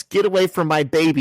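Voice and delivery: lightly acted protective yell; mock yell. Mom yelling at Spider-Man, mild mock yell. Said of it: "she yells".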